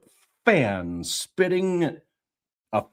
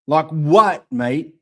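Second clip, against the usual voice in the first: put-on Cockney accent; 5 dB louder than usual. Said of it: "It's real close to Australian".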